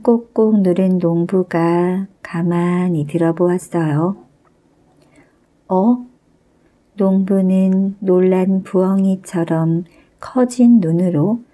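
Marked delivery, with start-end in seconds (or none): 5.7-6.1 a short, higher startled "어?". Acted. Farmer hears the voice from the ceiling, startled. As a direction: catch your breath in surprise.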